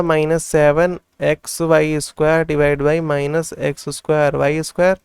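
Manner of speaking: very slow, each word drawn out; slow dictation. Shown as a demonstration. Teacher writing the second term for students, very slow dictation. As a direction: dictate it slowly as you write. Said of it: "तो हम लोग लिख लेते हैं".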